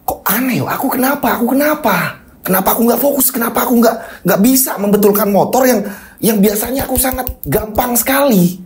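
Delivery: confused. Acted.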